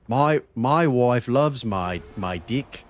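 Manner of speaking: slow, clumsy attempt at a New Zealand accent; jokey mock New Zealand accent; bad New Zealand accent. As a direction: fake a Kiwi accent badly, dragging it out. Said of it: "I can't do the New Zealand accent".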